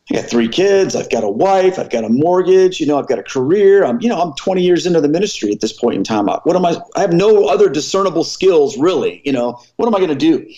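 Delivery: a touch of alarm, reliving the dread; retold panic. Minister fearing for family and career, mildly panicked. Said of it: "the truth is I was terrified".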